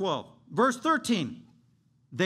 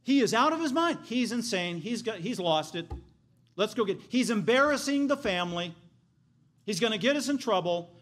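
higher, urgent quote of upset family; alarmed relatives; 5 semitones higher, 3 dB louder than usual. Acted. Family agreeing to go get him, alarmed. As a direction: speak as embarrassed kin, pitch lifted.

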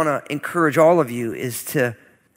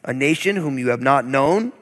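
steady, slightly raised public reading of scripture. Acted. Preacher reads Deuteronomy verses to congregation, solemn scripture reading. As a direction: read the curses out with weight.

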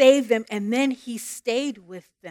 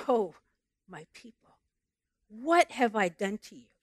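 tender God; 6 dB quieter than usual. Acted. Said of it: "listen to the tone change of God".

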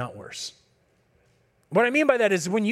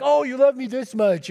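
put-on a child's voice, higher and a touch louder; lightly voiced child; 6 semitones higher, 4 dB louder than usual. Pastor retelling his kid's answer to him, in a higher child's voice. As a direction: play the kid answering his dad, bright and pleased.

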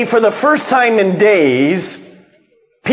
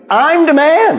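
boastful climax; 10 semitones higher than usual. Retold or imitated. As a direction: top the boast with a ringing, rising "man". Peter boasting, repeated three times.

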